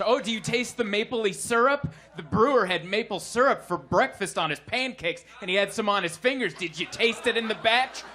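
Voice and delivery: mock-pretentious tasting spiel; lightly hammed-up connoisseur; snooty beer snob. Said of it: "People that are all snooty".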